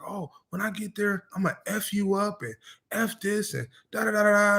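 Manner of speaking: hammed-up angry caller threatening over the phone; angry customer. Retelling a customer who cussed him out, mock threat.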